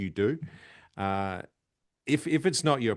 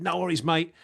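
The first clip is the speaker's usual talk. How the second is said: put-on light British-accented reply; a hint of a British accent; 8 semitones higher, 4 dB louder than usual. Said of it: "I'd do a British accent".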